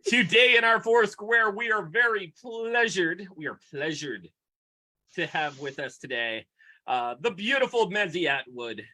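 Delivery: grand, showy host welcome; mock talk-show host. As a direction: introduce the guest like a TV host. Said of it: "hosting intro".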